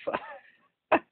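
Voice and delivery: very slow, stunned disbelief; mock stunned reaction from the watchers; baffled. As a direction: drag it out, totally lost. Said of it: "they were just looking like".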